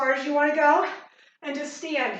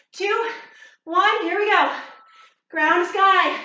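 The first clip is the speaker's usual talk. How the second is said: loud countdown cue; 3 semitones higher, 5 dB louder, slower than usual. Real, not acted. Counting class into jumps.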